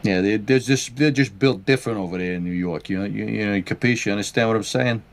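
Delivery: put-on playful New York wise guy accent; mock New York street talk. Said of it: "we really talking like this".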